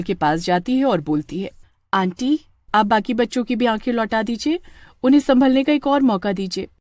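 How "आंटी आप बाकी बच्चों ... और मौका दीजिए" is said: put-on higher girl's voice, earnest; calm the witch like a brave child; young girl pleading. Pooja asks the witch to spare Sunny, high girlish voice.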